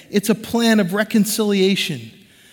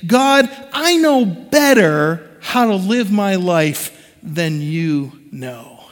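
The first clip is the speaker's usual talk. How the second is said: prideful defiance; slower than usual. Retold or imitated. Voicing prideful believer to God.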